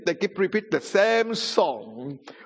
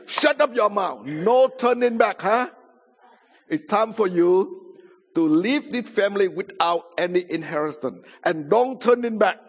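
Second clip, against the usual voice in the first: raised, emphatic mock rage; imitated mad grandfather; 4 semitones higher than usual. Grandfather disowning his Christian grandson, imitated angry outburst. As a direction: scold and banish him, pitch riding high. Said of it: "He was mad".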